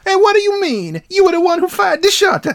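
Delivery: high, loud protesting brother; high indignant voice. Retold or imitated. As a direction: squeal it back indignantly. Voicing the other brother's retort.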